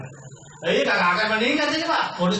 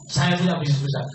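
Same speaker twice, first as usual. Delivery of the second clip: optimistic; 6 semitones lower than usual. Shown as a demonstration. Seminar coach showing members how to brag, optimistically. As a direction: say it with confident optimism. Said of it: "Ngomongnya harus dengan optimis gitu".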